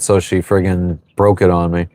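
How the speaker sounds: ordinary talk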